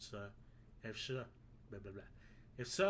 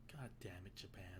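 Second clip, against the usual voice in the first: an unvoiced whisper, much softer; whispered curse; 7 semitones lower, 12 dB quieter than usual. Real, not acted. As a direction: breathe the curse under your breath. Muttered aside at the game.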